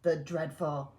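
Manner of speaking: dramatic reveal. A narrator's reading. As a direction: announce the monster with dread.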